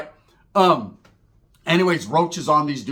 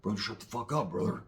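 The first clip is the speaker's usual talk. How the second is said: mimicking partner; 7 semitones lower, 10 dB quieter than usual. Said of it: "He was like".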